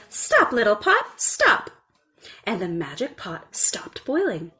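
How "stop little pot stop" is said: high, louder command; commanding the pot. A narrator's reading. Little girl stopping the pot, high and firm. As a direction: stop it like a spell. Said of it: "the little girl said".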